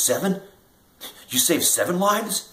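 retold kid's incredulous question; incredulous disbelief. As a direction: stretch out "lives" in stunned disbelief. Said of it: "He goes".

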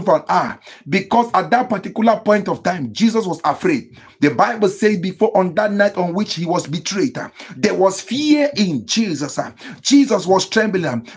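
fervent preaching. Real, not acted. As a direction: preach it urgently, each phrase falling at the end. Preaches on Jesus praying.

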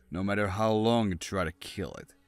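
ordinary delivery, nothing marked

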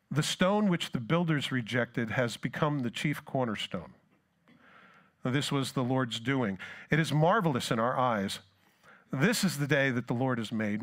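preacher reading scripture aloud. Acted. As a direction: read the psalm out to the congregation. Reads Psalm aloud in sermon.

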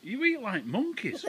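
high, slow laughing scold. Real, not acted. Mum laughing at messy kids.

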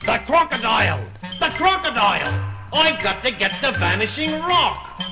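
villain crying out in alarm; panicking pirate captain. Acted. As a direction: yelp for escape from a hungry beast. Hook panics at the crocodile.

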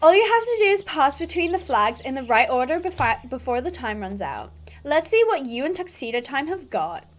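haughty, condescending rider; mean girl. Acted. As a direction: talk down to a beginner. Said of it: "my mean girl voice".

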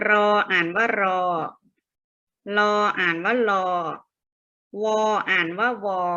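measured letter drill in one repeated tune; read-after-me drill. Shown as a demonstration. Teacher leading pupils through consonant names, repetitive read-after-me drill. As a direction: recite each letter evenly, pausing for pupils. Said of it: "นักเรียนอ่านตามคุณครูนะคะ".

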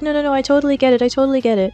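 mock-chipper, pitched a little high; weird chipper agreement. Suspect placating her interrogators, imitated as chipper. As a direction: play along a bit too brightly. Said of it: "weird chipper attitude where she's like".

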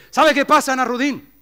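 high, loud, sly question; a hint of a cunning mayor; mayor speaks up. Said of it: "levanta la mano y dice".

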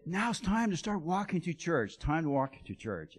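a gentler version of the pastor's call. Retold or imitated. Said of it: "he would say".

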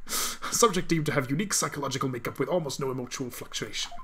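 a touch of robotic recital; machine-like readout. Acted. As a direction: read it out like a machine. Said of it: "reading it like a machine way".

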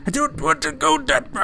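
reluctant, lifted voice. Pretend. Repeats refusal in higher voice.

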